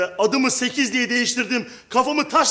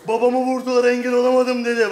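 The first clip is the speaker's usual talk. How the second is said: Kıvanç Tatlıtuğ impression. Shown as a demonstration. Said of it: "Bak yapayım bak".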